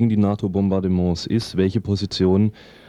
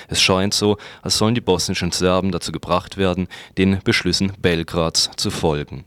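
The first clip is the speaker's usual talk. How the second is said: news read. Acted. Reads a news commentary.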